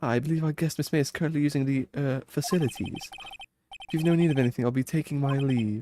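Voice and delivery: polite servant bowing and scraping; chirpy old-fashioned bellhop. Acted. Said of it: "I am the bellboy of this establishment".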